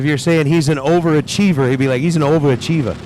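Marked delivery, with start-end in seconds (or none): 2.0-2.9 a hint of a New York overachievah; Peter's New York way. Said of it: "that's Peter's way of saying it".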